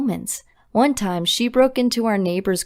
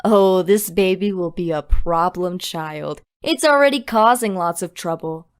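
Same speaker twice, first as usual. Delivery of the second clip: mildly sarcastic mother's remark; a touch of mock concern, digging at her; understated sarcastic jab; 2 semitones lower than usual. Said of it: "making one sarcastic comment after the other".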